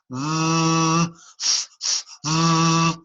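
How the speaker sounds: alternating voiced v and breathy f; f and v contrast. Shown as a demonstration. Teacher contrasting voiced v with f. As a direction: switch the voice on and off. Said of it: "put a voice in F".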